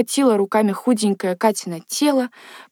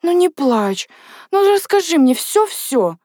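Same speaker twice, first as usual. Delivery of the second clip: higher-pitched, voiced pleading instead of whisper; urgent coaxing; 7 semitones higher than usual. A narrator's reading. Natasha tells Katya not to cry, coaxing her. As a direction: coax a crying friend to open up. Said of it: "шептала Наташа".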